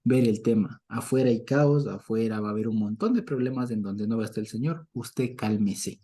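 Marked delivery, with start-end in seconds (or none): 4.9-6.0 calming. Acted. Calming Elijah, slowed.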